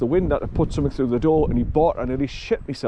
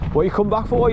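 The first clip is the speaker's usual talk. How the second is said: higher sing-song voice for the dog; doggy talk; 6 semitones higher than usual. Real, not acted. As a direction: coo at the dog, pitched well up. Talking fondly to the dog.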